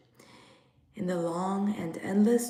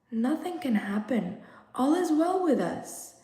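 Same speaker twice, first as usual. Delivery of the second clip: reassuring; 5 semitones higher than usual. Acted. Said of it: "They had to be soothed".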